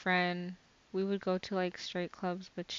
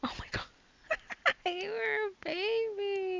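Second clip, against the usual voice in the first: pitying dismay; 8 semitones higher, 4 dB quieter than usual. Real, not acted. Friend learning the guest was only twelve, pitying dismay.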